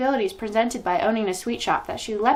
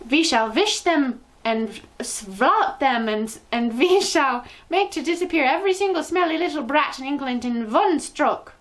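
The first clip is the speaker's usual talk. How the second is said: thundering; 5 semitones higher, 3 dB louder than usual. A narrator's reading. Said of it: "thundered the Grand High Witch".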